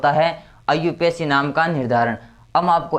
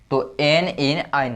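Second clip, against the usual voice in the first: slow recap; slower than usual. Shown as a demonstration. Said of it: "एन की ध्वनि आ रही है".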